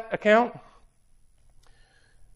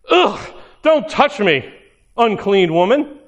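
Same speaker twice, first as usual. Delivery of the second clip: disgusted recoil. Retold or imitated. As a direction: sneer it like she's unclean. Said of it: "But is it like".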